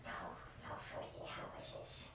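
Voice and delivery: hissing whispered cave creature; scary creature voice. Acted. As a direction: rasp it like a creepy hobbit-hater. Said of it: "don't be scared by that voice".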